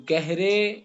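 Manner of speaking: گہرے with the last vowel held as "ay"; majhool "ay" ending. Shown as a demonstration. Teacher labels the vowel for students, گہرے ending in a long "ay". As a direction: stretch the end of گہرے like "gehray". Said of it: "یا مجہولہ".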